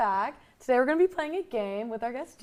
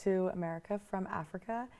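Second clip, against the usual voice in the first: loud and drawn out; slow; 2 semitones lower, 9 dB louder, slower than usual. Real, not acted. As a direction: stretch each word slowly. Game clue, drawn out.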